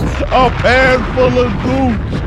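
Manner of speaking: high, slow disbelieving repeat; incredulous. Real, not acted. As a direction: stretch each word in disbelief.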